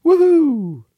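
high whoop of joy; excited cheer. Real, not acted. Cheer at break.

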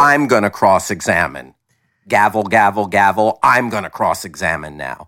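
even, mock-official judge with a verbal gavel; mock courtroom judge. Judge seizing the questioning from the lawyer, mock-official. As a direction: play a judge barging into cross-examination, lightly hammed. Acting out the cross-examining judge.

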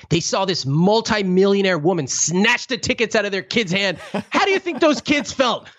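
a hint of a scolding Indian mother; guilt-driven Indian mom. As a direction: lay the guilt on thick, a touch of mock drama. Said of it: "I'm about to become a guilt-driven Indian mom".

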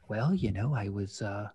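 a hint of an old Jewish man. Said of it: "your old Jewish man voice".

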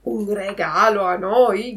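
the fox feigning offence at the gift, loud and indignant; indignant cry. Acted. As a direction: act scandalised. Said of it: "gridò la volpe sdegnandosi".

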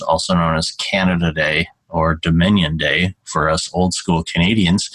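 put-on a light, barely-there Canadian accent. Host joking about his new homeland, mild Canadian accent. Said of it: "that's my worst Canadian accent ever".

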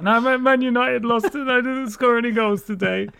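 put-on high, whining kid voice; whiny child voice. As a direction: whine it like an upset little boy. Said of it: "And I was like".

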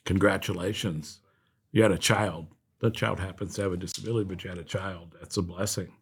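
soft, low, tender congratulations; friendly reassurance. Retold or imitated. Helpline worker reassuring a new parent, warm and quiet. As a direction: say it gently, letting it settle quietly. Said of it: "it's just hearing a friendly voice".

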